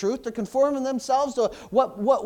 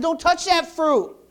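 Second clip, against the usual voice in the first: higher, louder, slow stern command; voice of God; 8 semitones higher, 6 dB louder, slower than usual. Acted. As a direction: deliver God's warning slowly and firmly. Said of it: "He said".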